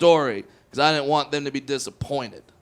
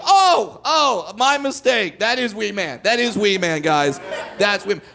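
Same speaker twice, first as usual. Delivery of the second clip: mock announcement; 3 semitones higher, 3 dB louder than usual. Waitress announcing, retold.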